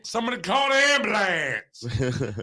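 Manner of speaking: hammed-up high-pitched echo; mock high cry. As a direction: wail it as a pretend emergency. Echoing the mock cry for help.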